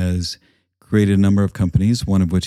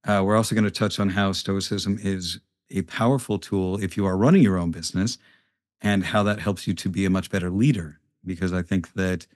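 quiet, far from mic; 3 dB quieter than usual. Real, not acted. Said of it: "I sound very quiet on that".

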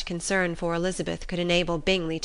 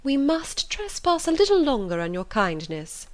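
fussing mother; 3 semitones higher than usual. Acted. Mother tells her host Jane can't be moved, fussily insistent. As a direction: stretch key words with emphatic pitch swoops. Voices Mrs Bennet as a character.

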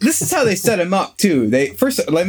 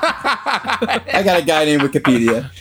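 shady street guy; slower than usual. Pretend. Playing shady street informant.

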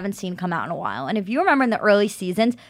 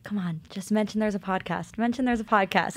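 quiet inner plea; 7 dB quieter than usual. Retold or imitated. Silently begging while watching the show.

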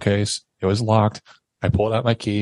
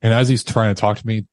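normal talking voice

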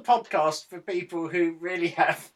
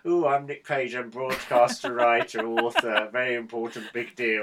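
lower, mock-grand self-praise; lightly voiced puffed-up broadcaster showing off; pompous self-important Nick; 5 semitones lower than usual. Mocking his co-host's pomp, lightly voiced big shot. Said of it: "there's a little assumption that".

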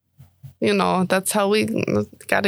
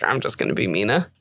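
lower Mina voice; 8 semitones lower than usual. Retold or imitated. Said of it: "I was like".

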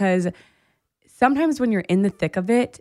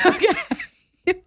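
laughing okay; 11 semitones higher than usual. Real, not acted. Reacting to her friend crying three times, laughing. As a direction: laugh it off in disbelief.

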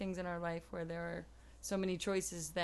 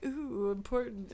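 mock self-important; 3 semitones higher than usual. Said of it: "we're trying to be all".

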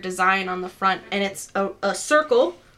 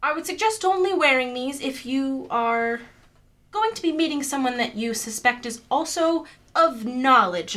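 higher-pitched, careful hostess; lightly voiced Morgana, explanatory; 4 semitones higher than usual. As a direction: lightly play a temple guide explaining etiquette.

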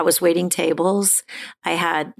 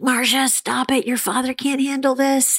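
higher mock yell from the kitchen; higher, urgent call to stop; mother yelling; 8 semitones higher than usual. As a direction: call out sharply like a worried mother. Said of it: "she yelled out".

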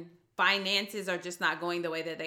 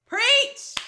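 much higher and louder shout; cheering; 10 dB louder than usual. Real, not acted. Host cheering the guest's point, excited shout. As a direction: cheer her on.

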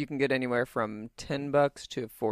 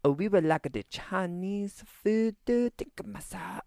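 put-on higher, slow caricature of a Chinese accent; mock Chinese accent; 7 semitones higher, slower than usual. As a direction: imitate a bad movie's mock Chinese accent, trailing into a whisper. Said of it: "the worst racist joke in the world".

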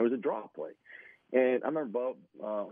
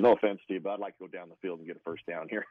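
loud opening, then laughing through the rest; Bubby-ish quote; 3 semitones lower, 5 dB louder than usual. Retold or imitated. Teammate retelling Bubby's huddle line, laughing. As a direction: quarterback cracking up as he quotes Bubby. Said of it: "that sounds so Bubby-ish".

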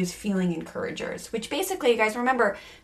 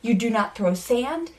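stern lecture. Acted. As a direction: spell out each rule to the misbehaving kid. Mom lectures child in role play.

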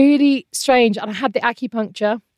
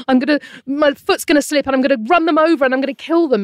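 gasp, then fast, raised panicky rush; retold rising alarm; panicking; 5 semitones higher, 4 dB louder, faster than usual. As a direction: re-enact racing panicked thoughts. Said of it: "I was having panic attacks".

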